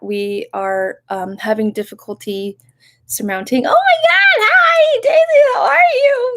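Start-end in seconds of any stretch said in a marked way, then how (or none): 3.7-6.3 very high, loud squealing greeting; excited squeal. Real, not acted. Streamer squeals hello to viewer Daisy in chat.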